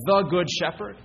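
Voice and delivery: single out the word "the" with strong emphasis; stress on THE. Real, not acted. Preacher sets the Lord apart from other shepherds, stress on "the".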